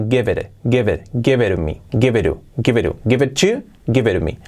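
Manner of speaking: "Give it" as "gebe ɾe"; "give it to" said "geberu"; flapped T. Shown as a demonstration. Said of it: "como R suaves".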